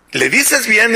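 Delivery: a little high, coaxing "¿le dices bien"; pleading daughter. Retold or imitated. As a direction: coax gently with "¿le dices bien". Daughter begs father.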